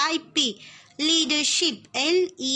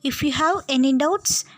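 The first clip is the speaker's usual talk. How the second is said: louder, calling out to the whole class; raised classroom voice; 3 dB louder than usual. Real, not acted. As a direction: project to the back row.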